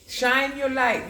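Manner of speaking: slow, high, drawn-out urging; lingering high encouragement; slow stretched repeat. Acted. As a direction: stretch each word out as a slow blessing.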